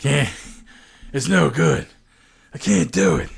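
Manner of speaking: lightly voiced gruff soldier; half-serious commando growl; Snake voice. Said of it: "one last Snake voice".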